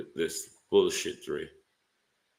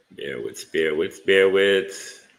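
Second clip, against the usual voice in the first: building louder; 8 dB louder than usual. Real, not acted. Streamer stalling while screen share loads.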